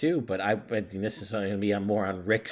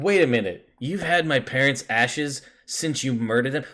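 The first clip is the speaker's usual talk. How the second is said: acted-out, louder indignant questioning; indignant confrontation; 4 semitones higher, 4 dB louder than usual. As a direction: confront them, acting mildly outraged. Acting out Wave confronting his parents' killer.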